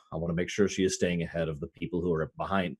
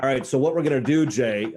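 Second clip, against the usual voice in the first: rallying call; 4 semitones higher than usual. Acted. Character rallies Jay before the rescue plan. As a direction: pump up the partner. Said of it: "I'm like".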